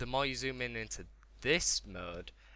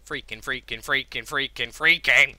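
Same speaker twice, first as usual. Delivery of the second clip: overwhelmed with excitement; 2 semitones higher, 17 dB louder than usual. Real, not acted. Gamer gushing over the game, overexcited. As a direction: build from rapid repeats to a shout. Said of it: "overwhelmed by the excitement".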